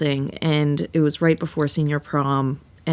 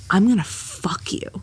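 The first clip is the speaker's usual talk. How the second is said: whisper. Retold or imitated. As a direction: whisper it like an imitated menacing come-on. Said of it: "she whispers in my ear".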